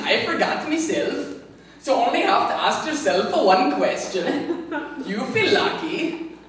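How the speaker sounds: tough-guy line in a put-on polite accent; hammed-up accent, chuckling through; mock British Dirty Harry. Bad accent skit for viewers, mock tough with laughs. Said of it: "Good Accents Gone Bad".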